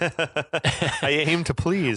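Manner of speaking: slow, chuckled reply; amused and drawn out; laughing. Real, not acted. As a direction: say it through a chuckle. Mock-gracious reply while laughing.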